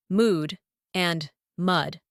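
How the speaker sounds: long oo in "mood", uh in "mud"; vowel contrast. Shown as a demonstration. Teacher contrasting two words, different vowels in "mood", "mud". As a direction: slowly set "mood" apart from "mud". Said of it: "one misspelled letter".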